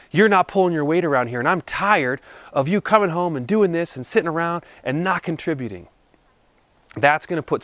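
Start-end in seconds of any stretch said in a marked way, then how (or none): 0.1-5.9 fast, blaming complaint; accusing tone. Shown as a demonstration. Husband demonstrating the attacking way to complain, fast and accusing. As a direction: rattle off the blame at your spouse. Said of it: "Notice the tone of voice versus saying".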